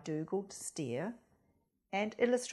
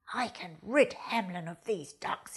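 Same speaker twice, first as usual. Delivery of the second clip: pied fox; 4 semitones lower than usual. Acted. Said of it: "he said".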